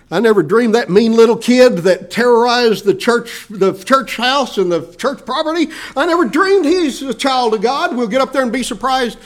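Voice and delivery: high, loud astonished exclaim; hammed-up shock at a heavenly reunion; mock surprise. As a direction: act out amazed disbelief at who made it. Imitating surprised person in heaven.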